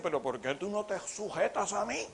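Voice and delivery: acted marital quarrel. Husband and wife quarrel acted.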